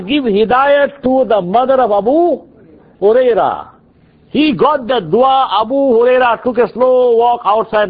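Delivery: slow, measured storytelling; slow teacher pace. Shown as a demonstration. Teacher slowing down so students follow, slow and measured. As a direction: draw it out like a patient teacher. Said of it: "so I talk like that".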